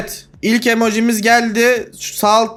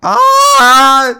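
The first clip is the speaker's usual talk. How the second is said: surprised; 5 semitones higher, 7 dB louder than usual. Real, not acted. Realizes the character was wrong.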